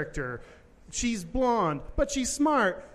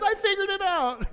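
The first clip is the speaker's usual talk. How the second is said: mock Elle triumphant; 13 semitones higher than usual.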